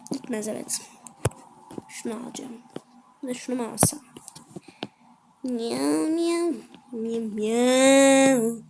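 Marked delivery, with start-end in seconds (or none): 5.4-8.6 light cat meows; lightly voiced kitten meows; playful meowing. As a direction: meow like a cute kitten. Imitates cat for cute item.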